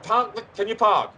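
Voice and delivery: high, excited calling down the phone; urgent excitement. Acted. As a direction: burst in urgently with a sudden idea. Urgent idea called down phone.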